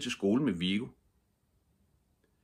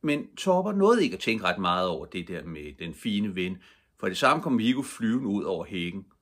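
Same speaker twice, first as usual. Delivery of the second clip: ordinary delivery, nothing marked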